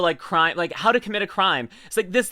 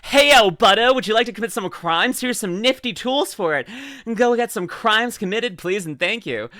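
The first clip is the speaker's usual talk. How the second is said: mock salesman Amazon; 4 semitones higher, 3 dB louder than usual. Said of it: "Amazon's like".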